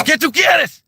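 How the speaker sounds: high, pushy mock server demand; Cuban server imitation.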